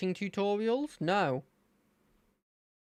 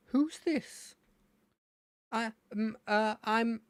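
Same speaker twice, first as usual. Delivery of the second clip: lightly voiced champion; a hint of a curious champion; 6 semitones higher, slower than usual.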